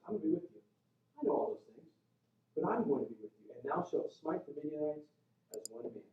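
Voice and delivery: acted-out quiet reassurance; reassuring. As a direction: gently promise your presence. God reassuring fearful Gideon.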